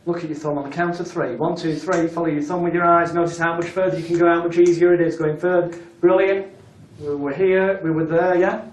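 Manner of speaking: brisk, lively stage-hypnotist push; upbeat stage coaching. Shown as a demonstration. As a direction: pump up the volunteer's success.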